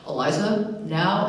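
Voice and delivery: a hint of a slow lumbering monster voice; lightly imitating director's Frankenstein voice. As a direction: mimic the director, barely lumbering. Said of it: "that's how he talks. It's like Frankenstein".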